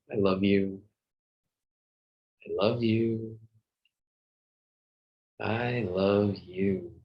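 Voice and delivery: drawn-out, lilting words of love; vary the tone on each repeat, stretching the last; playful affirmation. Shown as a demonstration. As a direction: say it tenderly to yourself, lingering on the words. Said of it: "the tone of how you say it, make it playful".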